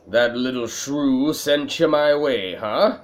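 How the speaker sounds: attempted German accent that comes out Irish; a light, badly done German accent; botched German accent. Junk dealer receiving a referred customer, German accent slipping into Irish. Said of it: "that's my German accent. I know, it sounds very Irish".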